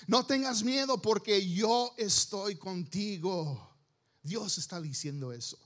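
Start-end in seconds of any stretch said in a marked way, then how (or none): 0.1-3.8 preached scripture. Acted. Preacher declaims God's promise.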